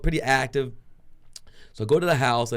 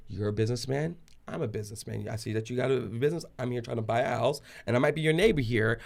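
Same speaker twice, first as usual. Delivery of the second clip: softer, measured negotiation; calm reasoning; 4 dB quieter than usual. Retold or imitated. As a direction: talk an angry neighbor down quietly. Retold calming negotiation with angry neighbor.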